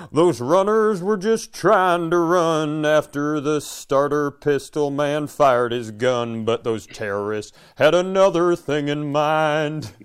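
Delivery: slow, earnest country storytelling; country ballad bit. Pretend. S1 performs Skeet McGraw's tragic ballad, slow and earnest. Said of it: "Skeet McGraw ... Never Forget album".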